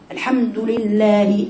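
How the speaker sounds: slow recitation of الحمد لله with a rounded "du"; measured الحمد لله, every short vowel complete; careful damma demo. Shown as a demonstration. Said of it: "شوف الضمة".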